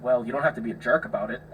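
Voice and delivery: imitating a deflated complainer; backed-down protest. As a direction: retreat into a mild objection. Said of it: "Brought it right back down to a four".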